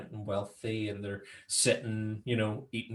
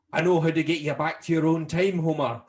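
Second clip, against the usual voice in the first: loud, higher cartoon character voice; put-on Willie voice; 4 semitones higher, 5 dB louder than usual. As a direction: proclaim it in an exaggerated character voice. Acts out Willie from the show.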